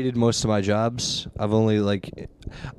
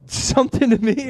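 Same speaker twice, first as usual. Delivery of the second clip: higher, put-on questioning voice; imitating a suspicious customer; 13 semitones higher than usual. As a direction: ask it like a guy sure he heard something. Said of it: "And he was like".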